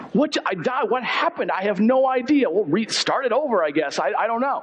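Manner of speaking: high-pitched mock bewilderment; baffled gamer. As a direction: act out a player thrown by a sudden loss. Acts baffled player dying in game.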